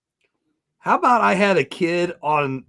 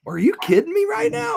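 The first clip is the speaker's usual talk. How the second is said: retold outburst. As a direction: yell it at the ref in disbelief. Retells shouting at the referee.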